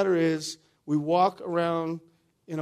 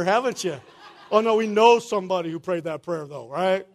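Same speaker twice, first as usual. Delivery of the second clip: laughing; 7 dB louder than usual. Real, not acted. Teasing the congregation, laughing.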